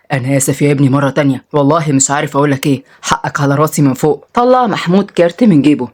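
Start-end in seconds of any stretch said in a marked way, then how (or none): 0.1-4.3 low, humble apology; apologetic. Acted. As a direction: bring the pitch down and apologize gently. Father apologizes to the stranger.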